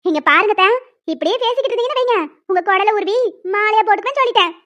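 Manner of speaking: angrier scolding. Pretend. Wife rehearsing a scolding of her mother-in-law, angrier now. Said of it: "கோவம் இன்னும் ஜாஸ்தியா வரணும்".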